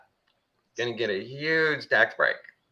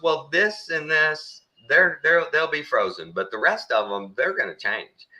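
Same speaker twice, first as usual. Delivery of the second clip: clerk explaining; 6 semitones higher than usual. Retold or imitated. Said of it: "he goes".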